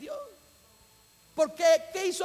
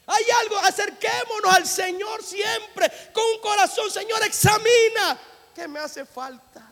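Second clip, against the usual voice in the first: fervent preaching; 6 semitones higher than usual. Acted. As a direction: call them to God at full force. Preaching, shouting with music. (predicación a gritos, con fervor)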